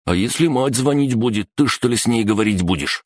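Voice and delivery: high-pitched incredulous goon; astonished question. A narrator's reading. Third goon worrying about mother's calls, amazed and high. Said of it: "изумился третий".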